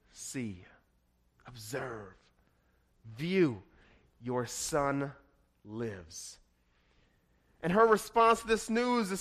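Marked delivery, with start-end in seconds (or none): 0.1-6.4 much softer, slow and tender words; a hushed, reverent hand-over; hushed reveal. Acted. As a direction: let each word fall quietly, in awe. Elijah reveals the revived child.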